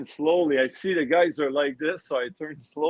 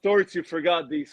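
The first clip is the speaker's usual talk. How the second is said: nervous laughing; 5 semitones higher, 3 dB louder than usual. Retold or imitated.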